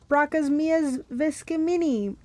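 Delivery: high, slow declaimed cry; yell. A narrator's reading. Hero yelling Latin back at the Fury, acted yell. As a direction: proclaim it like a spell, not full volume. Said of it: "I yelled".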